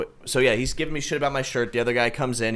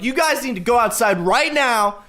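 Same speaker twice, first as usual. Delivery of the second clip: high-pitched urgent command; retold firm order; 11 semitones higher than usual. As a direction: break up a fight, voice pitched up. Retells ordering brawlers out.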